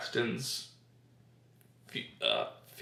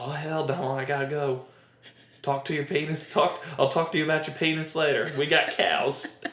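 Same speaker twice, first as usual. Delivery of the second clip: drawled mock Southern movie line; Southern accent. Host quoting Twister's fiancée to a friend, Southern accent. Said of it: "She has a Southern accent".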